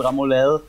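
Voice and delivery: "remoulade" said the Danish way, ra-mo-LEL; Danish pronunciation. Shown as a demonstration. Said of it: "it's a Danish thing".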